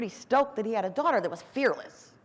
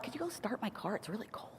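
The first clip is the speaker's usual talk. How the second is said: soft, much quieter sweet-talking; sweet request; 16 dB quieter than usual. Retold or imitated. Asking her brother to start her car, softly sweet. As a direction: coax him gently into doing a favour.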